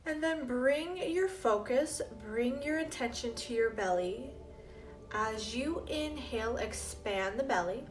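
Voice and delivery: slow, measured meditation guiding with long pauses; guided meditation. Acted. Teacher guiding listeners through breath and drifting thoughts, calm meditation voice. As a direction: lead the breathing calmly, phrase by phrase.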